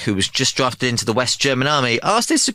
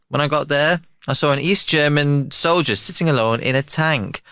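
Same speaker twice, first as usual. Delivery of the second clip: story told in a mock German accent; lightly hammed-up German accent; German soldier bragging in a German accent; 5 semitones higher than usual. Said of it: "That German accent was sensational".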